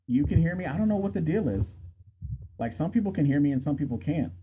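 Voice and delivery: muffled, distant mic sound; like talking from the next room; from another room. Real, not acted. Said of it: "You sound like you're in another room".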